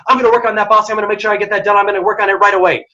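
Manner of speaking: rapid-fire eager yes to the boss; talking really quickly. Shown as a demonstration. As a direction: rattle it off with eager urgency. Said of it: "if someone's talking really quickly".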